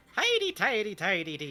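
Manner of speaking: put-on Irish accent. Imitating a character's dialogue, in a put-on Irish accent. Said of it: "I'm from an Irish descent. I'm allowed".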